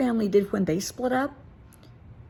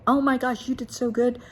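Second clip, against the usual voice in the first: higher and louder, delighted; excited praise; 6 semitones higher, 4 dB louder than usual. Pretend. Parent praising child after a great test, excited and delighted. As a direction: gush over the good grade.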